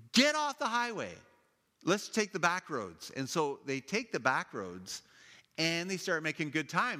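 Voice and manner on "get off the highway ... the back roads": raised, pushy order; urgent. Retold or imitated. Mom telling the family to leave the highway, urgent. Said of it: "She goes".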